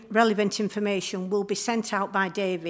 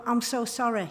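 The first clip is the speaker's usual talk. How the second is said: sympathetic sorry; 2 semitones higher than usual. Shown as a demonstration. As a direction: say I'm so sorry gently to someone struggling. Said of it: "It's how we say it".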